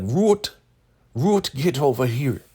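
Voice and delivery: high, loud call across the room; imitated summoning call. Elder Mother summons Ruth.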